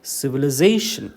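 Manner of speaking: സിവിലൈസേഷൻ with സേ punched loud; സിവിലൈസേഷൻ, strong സേ before a light ഷൻ; stress on second-last syllable. Shown as a demonstration. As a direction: hit സേ hard in സിവിലൈസേഷൻ. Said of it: "അതുപോലെ pronounce ചെയ്യണം".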